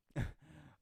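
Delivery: short, loud burst; laugh. Real, not acted. Streamer amused by own conspiracy theory, short laugh. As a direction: crack up briefly.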